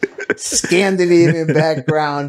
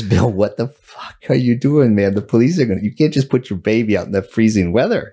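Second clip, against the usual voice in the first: John's alarmed protest; 9 semitones lower, faster than usual. Retold or imitated. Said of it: "my friend John says".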